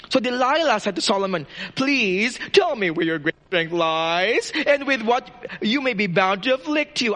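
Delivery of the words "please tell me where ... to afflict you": sweet tempting voice. Acted. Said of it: "with very nice voice and tantalizing eyes".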